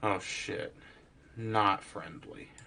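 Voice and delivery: hushed, slow half-whisper. Warning the group in character without being overheard: speaking quietly, not fully whispering. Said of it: "not whisper fully quiet".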